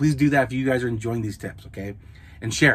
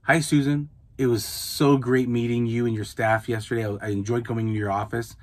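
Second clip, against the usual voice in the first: friendly email read; 3 dB quieter than usual. Shown as a demonstration. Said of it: "That's how I talk in the email".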